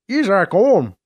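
talking through a mouthful of food; mouth full. Acted. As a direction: speak round a big bite. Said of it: "says through another full mouth".

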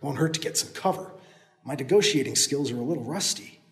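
soft, to himself; hiding hero talking to himself, soft; quiet aside. Acted. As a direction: mutter it to yourself.

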